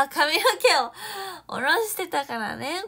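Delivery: loud, slow, stretched-out explanation; drawn-out reply. Real, not acted. Answering a fan about her hair, loud and drawn out. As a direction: stretch it out as if it's obvious.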